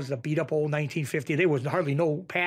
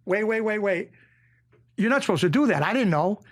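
retold protest; 4 semitones higher, 4 dB louder than usual. Retelling his panicked interruption on set.

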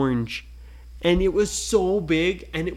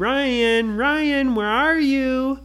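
higher, louder call across the island; 9 semitones higher, 4 dB louder, slower than usual. Acted. Girl searching for her brother, calling out. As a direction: call out for Ryan.

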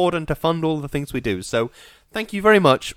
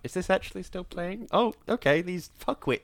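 mock listener; 4 semitones higher, 8 dB quieter than usual. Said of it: "people ... been like".

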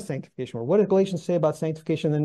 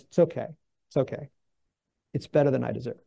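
unruffled acceptance; 4 semitones lower than usual. Retold or imitated. Priest answering about being spat on, mildly calm. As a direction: answer mildly, letting the offence go. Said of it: "without missing a beat".

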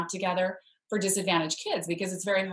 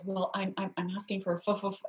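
softer, halting, catching on the f; nervous stutter; 6 dB quieter, faster than usual. Retold or imitated. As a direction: stammer it out, scared to name the price. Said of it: "she stuttered".

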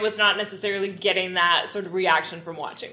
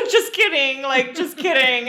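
higher-pitched mock "only joking" voice; flippant backpedalling; 5 semitones higher than usual. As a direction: toss it off as a hasty, higher retraction. Imitating his flippant backpedalling.

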